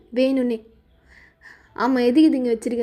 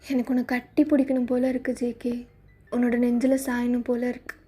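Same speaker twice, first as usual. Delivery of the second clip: tender soft confession; 5 dB quieter than usual. Acted. Tender wish to embrace.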